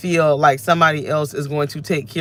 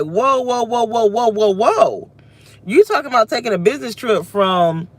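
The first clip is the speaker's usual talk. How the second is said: new self objecting; 4 semitones higher than usual. Retold or imitated. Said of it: "My new self is like".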